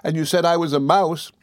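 high, plaintive little voice; tearful reproach. A narrator's reading. Dora reminding her husband of an endearment, mildly tearful. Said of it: "sobbed Dora".

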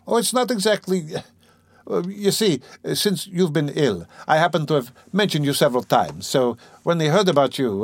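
lightly voiced apologetic friend, fumbling for words; flustered Razumihin. Razumihin awkwardly explaining drunken talk to Rodya, flustered.

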